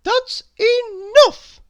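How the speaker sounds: high, loud, slow fed-up outburst; exasperated cry. Acted. Librarian cuts off the endless questions, exasperated. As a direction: snap she's had enough. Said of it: "cried Missus Page".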